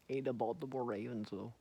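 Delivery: loud. Shown as a demonstration. Playing with the team name.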